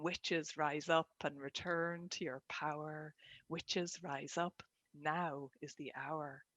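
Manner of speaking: slow rhythmic poem recital; lilting irish storyteller. Shown as a demonstration. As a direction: recite it slowly, like a spell. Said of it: "this is often how words and poetry comes to me".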